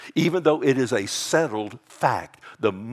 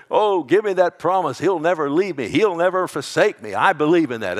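mock deathbed cry; 5 semitones higher, 6 dB louder than usual. Imagined deathbed cry of faith.

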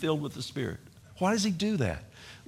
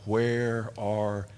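crying out; 4 semitones lower, 3 dB quieter, much slower than usual. Retold or imitated. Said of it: "where I cried out".

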